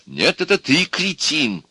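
high, drawn-out comeback; quarrelling retort. A narrator's reading. Optimist retorting to the pessimist, quarrelling. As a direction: throw the insult back emphatically.

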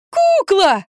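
high, loud shriek; a boy's piercing squeal of relief. A narrator's reading. Boy shrieks at the doctors, high and loud. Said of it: "завизжал Кирюшка".

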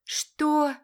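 mother shocked by the news; shocked cry. A narrator's reading. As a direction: explode in disbelief. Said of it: "закричала женщина".

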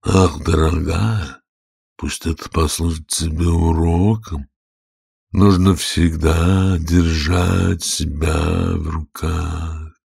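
put-on slow moralizing old mother; old crab mother. A narrator's reading. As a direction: lecture her daughter slowly. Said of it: "старая медуза сказала своей дочери".

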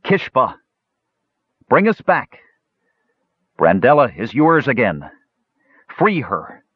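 high, carrying call into the darkness. A narrator's reading. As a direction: call out into the dark for him. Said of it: "called out into the darkness".

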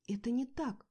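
loud high protest; sharp loud exclamation; exclaimed. A narrator's reading. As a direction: cry out the denial. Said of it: "воскликнула я".

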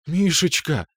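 mother's quivering high cry of her son's name; lightly voiced tearful mother; trembling glassy voice. A narrator's reading. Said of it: "вздрагивающим стеклянным голосом выговорила мама".

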